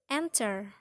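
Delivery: "enter" with EN stressed; first-syllable stress. Shown as a demonstration. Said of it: "first syllable is stressed".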